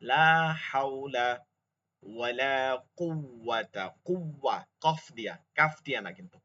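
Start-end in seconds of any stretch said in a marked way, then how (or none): 0.0-3.9 হাওলা with the throat ha sound. Shown as a demonstration. Teacher showing the throat ha in হাওলা. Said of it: "হলকের মধ্যখানের হা".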